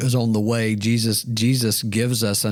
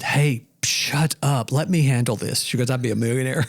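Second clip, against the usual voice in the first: bossy brother. Retold or imitated. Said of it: "every time my brother has said".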